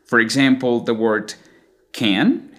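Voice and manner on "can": can with a long, stretched A; extended American A. Shown as a demonstration. Teacher introducing the example word, extended A. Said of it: "has a very obvious extension of the vowel sound".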